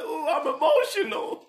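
high, laughing at his own tears; half-joking choked-up voice; laughing mock emotion. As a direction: giggle through the line. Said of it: "I'm like".

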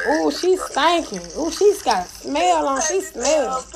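put-on slow, sing-song kid's tease; teasing child. Imitating kids on the playground, slow sing-song taunt. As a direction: tease like a giggling schoolgirl. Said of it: "couldn't do nothing but laugh".

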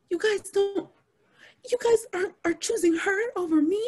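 very high, whiny imitation of a victim; hammed-up wounded complaint; mock tearful protest. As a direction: plead in disbelief, far above your voice. Mocking the crying colleague's protest.

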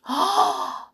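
high storyteller's gasp; sudden shocked intake; dramatic gasp. A narrator's reading. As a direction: gasp for the listeners. Narrator shocked by coming bite.

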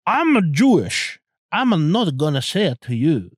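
botched, hammed-up Jewish accent; exaggerated mock Jewish accent, sliding off target; bad Jewish accent. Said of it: "can't even do a fucking Jewish accent".

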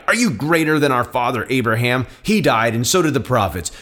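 firm, emphatic Bible narration with voiced dialogue; dramatic scripture reading. A narrator's reading. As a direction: read the gospel aloud with conviction.

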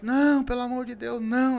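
high begging cry from below; crowd pleading. Retold or imitated. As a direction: plead loudly, panicked. (grito desesperado de súplica)

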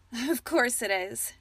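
slow, smiling reply; amused smile. A narrator's reading. Alexandria to Merlin about his name, amused and smiling. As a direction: let the smile color it. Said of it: "she smiled".

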